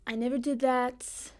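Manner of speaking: slow, lightly imitated presidential denial; Donald Trump. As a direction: draw it out like a mock Trump. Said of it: "What's something Donald Trump says?".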